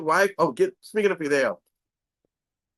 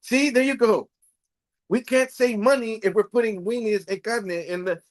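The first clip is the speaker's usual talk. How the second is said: mock wife; 5 semitones higher than usual. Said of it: "She goes".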